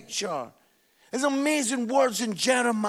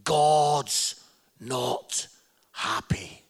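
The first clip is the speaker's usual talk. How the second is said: much lower, slow grim preacher voice; doom preacher; 8 semitones lower, much slower than usual. Retold or imitated. Imitating the old preacher opening his sermon, low and grim. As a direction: intone it like a gloomy hellfire preacher. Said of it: "He always started by saying".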